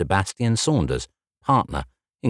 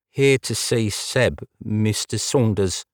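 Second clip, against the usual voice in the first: trembling delivery; 4 semitones higher, slower than usual. Acted. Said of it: "masking his accent failed through the trembling delivery".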